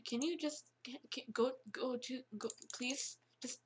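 hushed whisper, begging. Real, not acted. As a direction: whisper a desperate plea. Begging the bear quietly.

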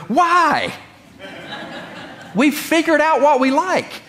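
high, laughing mock indignation; mock-indignant reply. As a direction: play the stubborn creature of habit, amused. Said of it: "And always I go".

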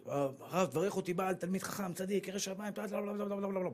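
soft, mocking singsong request; mock girl's request. Rabbi mocking young women listing husband wishes softly. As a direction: rattle off the wish list dismissively. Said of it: "היו באות אליי בחורות".

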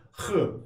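Hı as a rasping kh from the back of the throat; raspy throat kh. Shown as a demonstration. Teacher making students hear the raspy kh sound. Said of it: "Yani şu sesi duymanız lazım".

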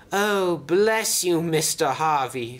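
high, drawn-out gratitude; gracious thanks. A narrator's reading. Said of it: "said Toad graciously".

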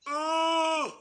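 high strained scream on uh. Shown as a demonstration. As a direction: shoot the uh up into a tight scream.

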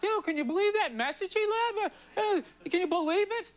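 mock outrage. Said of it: "everybody was freaking out".

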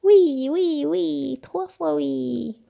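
high, eager string of yeses; decide joyfully, stretching the last words; high-pitched, resolute little cheer; emphatic decision. A narrator's reading. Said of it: "décida-t-il".

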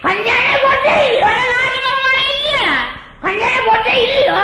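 high, loud challenge; hammed-up argumentative shouting; quarrelsome shout. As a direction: yell the question as a heated accusation. Acted quarrel, repeated challenge.

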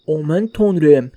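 "Aman tanrım" stretched very slowly, vowels bent like "omæn tonrem"; mock dramatic gasp. Streamer mocking the game's cheesy line, "Aman tanrım" drawn out slowly. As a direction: drag out "Aman tanrım" like a bad dub. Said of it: "Böyle konuşacağım".

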